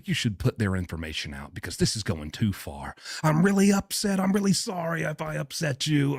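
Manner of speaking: rising, pleading mock apology; mock backtracking. Mocking the father's frantic apology, pleading and rising. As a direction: ham up his frantic backpedalling. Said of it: "he immediately backtracks".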